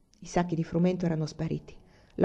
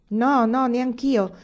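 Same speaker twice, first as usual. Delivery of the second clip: raised, higher-pitched protest; crowd shouting agreement; 5 semitones higher, 5 dB louder, much slower than usual. A narrator's reading. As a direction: call out loudly like voices from a crowd. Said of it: "gridarono parecchie voci".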